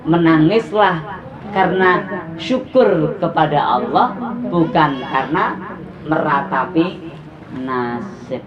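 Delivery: slow, spaced for note-taking; scene: preacher dictating to women writing notes, slow; slow dictation. Shown as a demonstration. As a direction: dictate it slowly so they can write. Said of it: "boleh ditulis".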